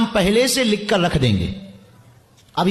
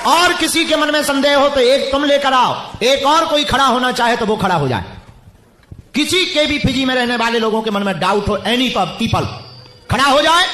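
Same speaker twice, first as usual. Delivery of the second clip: raised, higher-pitched challenge to a crowd; calling out challenge; 4 semitones higher than usual. Real, not acted. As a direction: call out across a packed stadium. Challenging a packed stadium to stand up.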